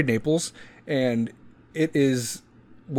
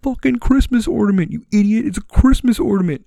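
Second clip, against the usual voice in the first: mock angry yell; 9 semitones higher, 6 dB louder than usual. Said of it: "you guys are like".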